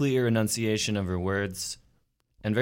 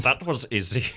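higher-pitched Easy button imitation; 5 semitones higher than usual. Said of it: "terrible impression of that voice".

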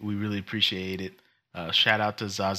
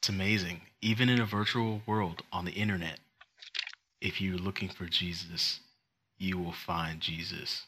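hushed profound moment; 3 semitones lower, 6 dB quieter than usual. Pretend. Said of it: "supposed to be a moment".

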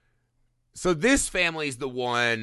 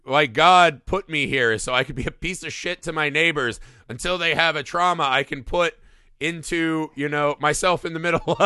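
mock nun. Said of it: "and she's like".

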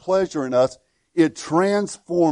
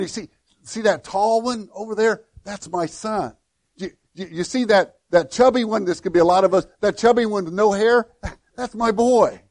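higher, chuckling proud father; playful proud God; 4 semitones higher than usual. Acted. Preacher voicing God pointing out his children, playful and laughing.

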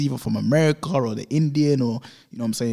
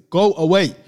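loud, high imitated shouting; re-enacted shout in someone's face; aggressive shout; 6 semitones higher, 8 dB louder than usual. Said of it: "he's shouted in her face".

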